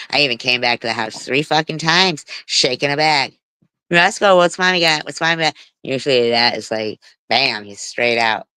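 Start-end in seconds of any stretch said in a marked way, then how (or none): 3.9-5.6 high coaxing call to a pet; sing-song calling the dog. Retold or imitated. Owner calling her hiding dog with a treat bag, high and sing-song. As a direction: coax the dog out with a lilting high voice.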